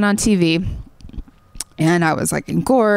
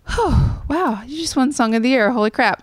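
high "oh" settling into wonder; lightly acted, higher-pitched awe; retold happy amazement; 5 semitones higher than usual. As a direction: let the good news dawn on you. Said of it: "then I got really happy".

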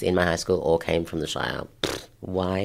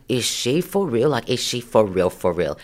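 incredulous; 3 semitones higher, 3 dB louder than usual. Retold or imitated. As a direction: turn to friends in mock disbelief. Appeals to boys in disbelief.

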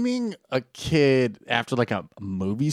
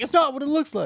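dramatic tone; 12 semitones higher than usual. Retold or imitated. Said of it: "You said it in the tone".

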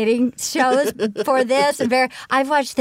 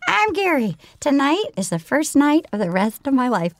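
Kermit-like Gary. Retold or imitated. Quoting Gary on the show in a light Kermit voice. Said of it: "sounding like Kermit the Frog".

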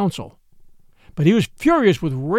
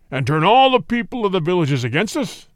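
clamoring tiger. A narrator's reading. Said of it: "clamored Shere Khan".

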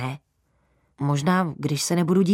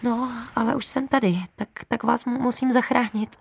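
higher, rushed blurting; blurted out; 6 semitones higher than usual. Acted. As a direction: blurt it out nervously to cover fear. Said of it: "nahlas jsem vyhrkla".

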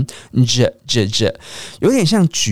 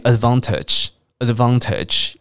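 British "advantage", middle syllable said as vahn; British pronunciation; slower than usual. Shown as a demonstration. Teacher shows how the English say it, British "advantage". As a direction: say "advantage" the British way, broad ah in van. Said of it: "听到英国人念".

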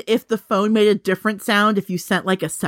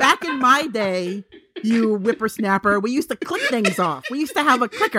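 put-on old prospector. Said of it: "I'm old, okay?".

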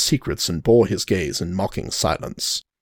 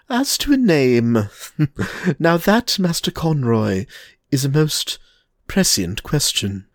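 smirking Reinhardt; 5 semitones higher than usual. Acted. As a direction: let the smirk sound through. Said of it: "hint of a smirk".

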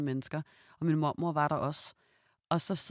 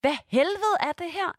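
much higher, louder and slow; outraged disbelief; 14 semitones higher, 6 dB louder than usual. Retold or imitated. Reacting to the guests' sexist remark, slow and incensed. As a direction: spit out the outrage slowly. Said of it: "så er jeg bare sådan".

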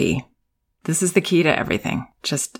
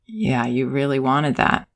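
calm acknowledgment; 2 semitones lower than usual. Shown as a demonstration. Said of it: "We would stay calm and say".

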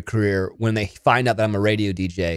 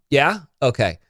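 talking to producer. Pretend. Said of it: "as if I'm talking to someone in, like, a different room".

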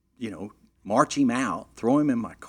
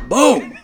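shouted high "boom!"; imitating the groom falling like a tree; loud boom; 8 semitones higher, 14 dB louder than usual. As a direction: slam the word like a crash. Body hitting floor.

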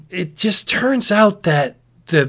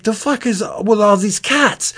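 exasperated Noah; 8 semitones higher than usual. Retold or imitated. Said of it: "he's like".

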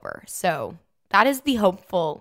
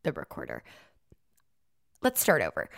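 very low, quiet slowed-down playback; deep robotic recorder voice; 14 semitones lower, 8 dB quieter, faster than usual. Shown as a demonstration. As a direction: drop the voice way down like a dragging tape. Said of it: "I'm acting like the recorder".

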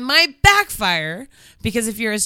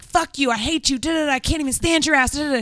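higher-pitched mock rant; mock yelling; 5 semitones higher than usual. Shown as a demonstration. Coaching how to yell at him, mock angry rant. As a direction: demonstrate an angry tirade without full volume. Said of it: "start yelling at him like".

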